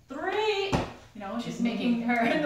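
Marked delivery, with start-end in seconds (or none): 0.1-0.7 counting shout. Retold or imitated. Mom counting coming upstairs.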